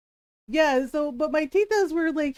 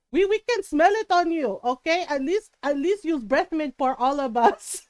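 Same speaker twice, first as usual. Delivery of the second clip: other tita. Retold or imitated. Another aunt complaining about her breath, mock accusing. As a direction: mimic an aunt piling on, in accent. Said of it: "My other tita goes".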